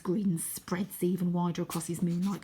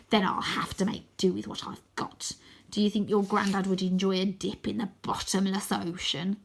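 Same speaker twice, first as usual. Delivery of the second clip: menacing scarecrow whisper. Acted. Croaky menacing.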